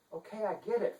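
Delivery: high, prim and indignant; a dainty lady playing at outrage; fussy chancellor. Chancellor protesting to the detective, high and prim. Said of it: "Funderburk said".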